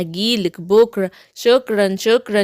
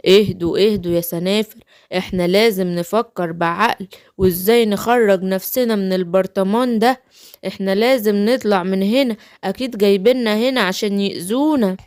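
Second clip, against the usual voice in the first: Papa Smurf voice. Pretend. Papa Smurf calming the others.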